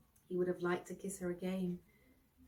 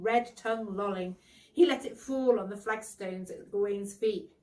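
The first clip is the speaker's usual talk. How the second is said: ordinary delivery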